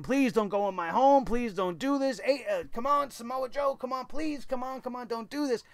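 mock pleading. Vlogger mimics AJ begging Joe, mock pleading. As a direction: play it as a desperate husband begging, lightly. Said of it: "A J is begging and pleading with him".

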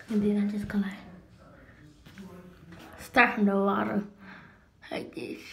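speaking while cleaning braces; brush in mouth. Real, not acted. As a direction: lip pulled by fingers. Seen 1: Blue brush between braced teeth, fingers pulling lip aside, throughout.

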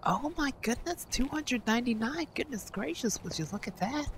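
lightly voiced goofy prankster character; a hint of an awestruck goofy character; Ed Bassmaster. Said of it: "Calm down, Ed Bassmaster".

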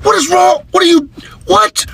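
very high, sputtering disbelief; exasperated bafflement. Acted. Dad baffled by his daughter, high exasperation.

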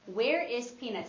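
puzzled hmm, then a curious question; wondering question. Shown as a demonstration. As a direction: wonder aloud where he went. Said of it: "You could be thinking like".

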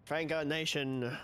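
"Franco Nation" said very slowly, each syllable stretched; slow, savoring repeat. Shown as a demonstration. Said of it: "slow repeat of the name".

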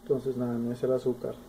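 talking between bites; chewing food. Real, not acted. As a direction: mouth partly full. Seen 2: Small webcam inset: man spoons food from bowl while speaking.

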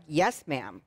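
low, deferential acknowledgment; very respectful. Retold or imitated. Woman showing how she answered her sister-like friend, very respectful. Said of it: "very respectively, like".

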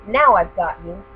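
loud triumphant witch cry; spring the trap with a shout. Acted. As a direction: witch pouncing on the children, loud.

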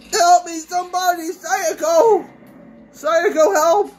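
high desperate cries for help; calling for help. Real, not acted. Player begging her co-op partner Sayako for help, high and desperate. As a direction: call out to a partner who isn't answering.

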